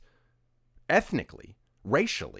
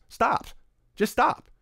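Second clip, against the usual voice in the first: sharp, higher, louder stop; exasperated; 11 semitones higher, 4 dB louder, much slower than usual. Real, not acted. Telling offended commenters to quit, exasperated louder stop. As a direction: shut them down, fed up.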